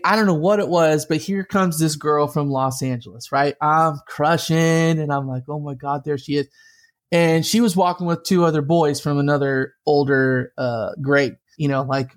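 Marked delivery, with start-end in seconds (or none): 5.5-6.5 softer, retold aside to himself; hushed awe. Boy spots the girl he's crushing on, hushed awe. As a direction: say it low like spotting a crush.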